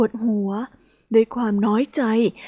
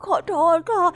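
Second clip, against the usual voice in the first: high, teary and flustered sorry; timid, tearful little girl voice; tearful apology; 6 semitones higher than usual. Acted. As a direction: apologise fast, on the edge of crying. Hippo apologises, near tears.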